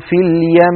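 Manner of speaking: "في اليم" with the meem nasal held long; stretched ghunna on final meem. Shown as a demonstration. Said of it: "نقول".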